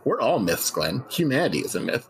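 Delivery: calm, matter-of-fact doctor delivering grim news; a TV shrink telling a caller everyone is dead; deadpan talk-show doctor. Acted. Plays Doctor Goddard on show.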